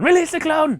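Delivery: high loud command; shouted villain order. Pretend. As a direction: bellow it like a villain.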